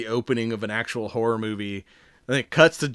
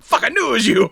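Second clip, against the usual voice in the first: high, loud, laughing accusation; 10 semitones higher, 6 dB louder than usual. Retold or imitated. Jack blaming the squirrel guy, laughing loud accusation. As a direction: accuse him while cracking up. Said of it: "He's like".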